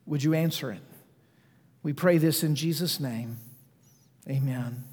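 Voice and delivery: hushed pastoral prayer. Acted. Pastor prays before sermon.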